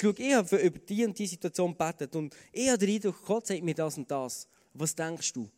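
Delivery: leiser, vorsichtig und einladend; offen fragend. Shown as a demonstration. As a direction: als Vorschlag unter Freunden anbieten. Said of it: "Dann tönt das ganz anders". (leise und offen, die Meinung des anderen erfragen)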